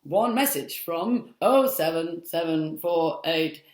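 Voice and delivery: slow, robotic voicemail announcement; electronic voice. Retold or imitated. Caller mimicking the voicemail machine, slow robotic readout. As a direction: imitate the automated phone lady reading out the number. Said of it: "wait for the electronic voice to say".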